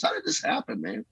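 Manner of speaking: breathy near-whisper, close to tears; tearful whisper. Retold or imitated. Pastor overcome by God's work in his church, tearful whisper. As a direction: let it fall to a hushed, tearful breath. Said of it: "I just cry sometimes".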